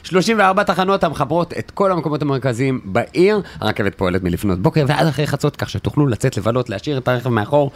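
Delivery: smooth radio ad read; polished sponsor announcement read. Acted. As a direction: sell the light rail line calmly. Reads a radio ad.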